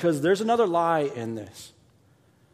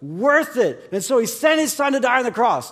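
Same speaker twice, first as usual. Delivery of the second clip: higher, louder proclaiming of the common saying; loud mock of what people say; preached quote; 5 semitones higher, 3 dB louder than usual. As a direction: declare it like a familiar slogan.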